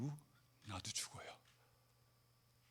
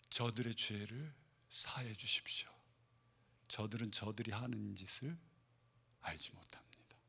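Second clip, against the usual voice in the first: whispered prayer; 6 semitones lower, 10 dB quieter than usual. Retold or imitated. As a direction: pray it in a lowered, hushed whisper. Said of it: "라고 예수님은 그렇게 아버지께 기도했습니다". (아버지께 드리는 속삭이는 기도)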